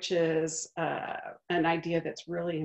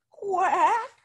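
higher, rising quack; questioning quack; 12 semitones higher, 6 dB louder than usual. Acted. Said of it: "asked the duck".

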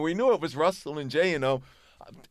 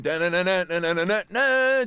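imitated guitar riff; 3 dB louder than usual. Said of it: "We ain't know what was coming".

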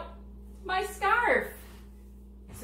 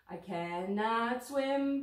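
mistaken lyric; much slower than usual. Real, not acted. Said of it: "Everybody makes some mistakes when they sing".

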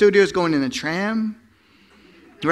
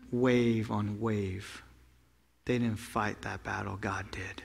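hushed dramatic telling; 9 semitones lower, 12 dB quieter than usual. Acted. Preacher hushing the room over the drowned chariots. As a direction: pull the congregation in close, softly.

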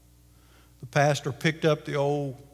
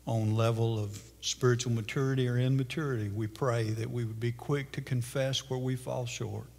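soft, lower pastoral prayer voice; 4 semitones lower, 7 dB quieter than usual. Real, not acted. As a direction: pray quietly over the congregation. Closing prayer.

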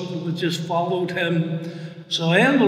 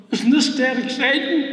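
lightly acted, higher-pitched excitement; excited; 4 semitones higher than usual. Patient telling his worried wife it's exciting, excited. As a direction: retell your own eager delight. Retelling his delight at a heart attack.

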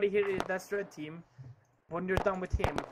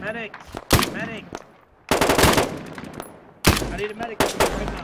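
urgent yell for a medic, louder each time; man down shout; 5 semitones higher, 8 dB louder than usual. Real, not acted. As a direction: shout across the field for help. Teammate down, calling for medic.

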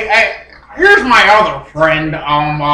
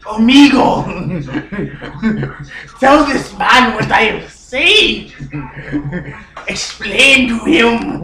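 put-on Cuban accent. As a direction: question them as a Cuban character, accent on. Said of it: "I'm from Cuba".

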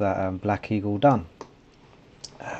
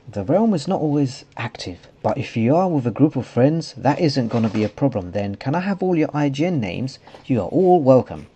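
higher sing-song mock gamer voice; put-on silly voice; 5 semitones higher than usual. Player quoting the realm owner, silly put-on voice. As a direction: put on a silly voice, pitch swooping up. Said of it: "putting a different voice for him".

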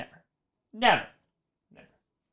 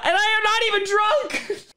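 tag; 7 semitones higher than usual. Real, not acted. Protests amid own laughing fit.

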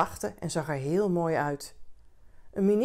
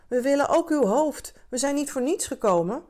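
higher, louder demanding call, settling at the end; crowd shouting; 8 semitones higher, 4 dB louder than usual. A narrator's reading. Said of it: "riepen ze". (eisend roepen, hoger en luider)

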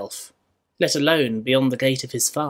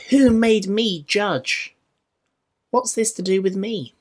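incredulous rebuke; 6 semitones higher than usual. Acted. Jesus rebukes questioner.

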